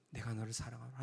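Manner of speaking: low, soft spoken line, not sung; hushed spoken echo. Retold or imitated. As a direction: say it quietly like words echoing after a bell. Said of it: "제아의 종소리 있잖아요".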